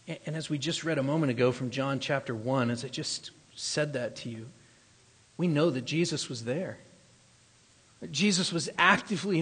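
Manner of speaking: preacher lowers his voice for Genesis; soft teaching. Acted.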